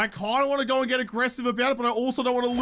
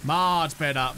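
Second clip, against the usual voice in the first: low contented murmur; 7 semitones lower, slower than usual. Shown as a demonstration. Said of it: "Don't lie to me".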